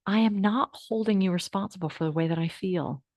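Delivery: soft, steady affirmation said with the class; calm affirmation. Shown as a demonstration. Teacher leading the class in a calm affirmation. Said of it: "Everybody say that with me".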